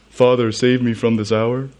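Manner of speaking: slightly goofy mock plea, rising at the end. Preacher imagines Jesus joking at a ridiculous prayer, goofy voice. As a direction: put on a lightly silly pleading voice. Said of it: "do that in a goofy voice".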